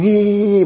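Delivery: high, drawn-out mock giggle; mocking laughter imitation. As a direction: imitate people jeering at you. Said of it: "אני רואה צוחקים".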